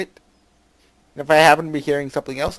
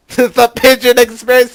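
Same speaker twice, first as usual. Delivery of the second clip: slow, much higher and louder mock repeat; mocking quote; 10 semitones higher, 14 dB louder, slower than usual. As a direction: scoff at the phrase. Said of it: "he says".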